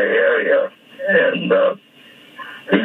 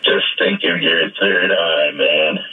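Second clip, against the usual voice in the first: hip psychiatrist; 4 semitones lower than usual. Retold or imitated. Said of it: "this hip psychiatrist leans in and says".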